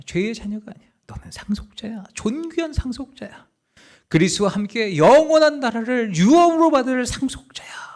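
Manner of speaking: whispered, breath-only assurance; intimate whisper. Acted. The Spirit whispers to a believer, hushed intimate whisper. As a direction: whisper it right into their ear.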